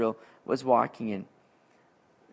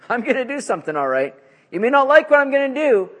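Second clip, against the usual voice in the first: higher, louder stern warning; God warning; 8 semitones higher, 5 dB louder than usual. Acted. God warning Habakkuk, raised stern voice. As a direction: tell him he won't like it.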